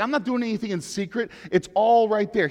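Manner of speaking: lightly voiced defiant Jesus; throwing it back. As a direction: fling it back in his face. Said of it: "throws it back in his face".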